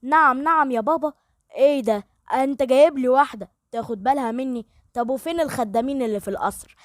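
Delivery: a touch of indignant protest; lightly voiced irritated young man; mild anger. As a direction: Aser protests angrily to his father, understated. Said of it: "رد آسر بغضب".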